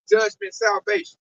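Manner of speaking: slow rising preacher's shout; high slow pulpit shout; preached shout. Real, not acted. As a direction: drag it out and cry it to the room. Preaching of coming judgment.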